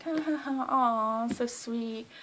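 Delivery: imitated polite laugh into loud cooing; Taylor. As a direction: mimic a gushing "aw". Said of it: "And Taylor was like".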